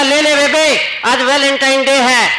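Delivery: put-on the scared boy begs the girl in a rush of alarm; panicked plea. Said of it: "यह सुनते ही छोरा घबरा गया".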